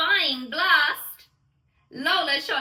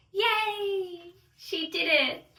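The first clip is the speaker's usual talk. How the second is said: cheering; 6 semitones higher, slower than usual. Acted. Narrator cheers Lola's success.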